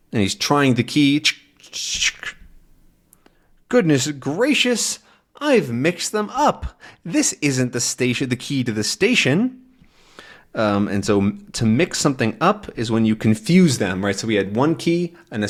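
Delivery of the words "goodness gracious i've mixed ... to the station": dismayed. Acted. Character realises keys mixed up.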